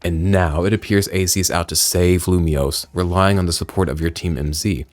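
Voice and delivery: lightly voiced grave storyteller; solemn game character. Reads out game character dialogue.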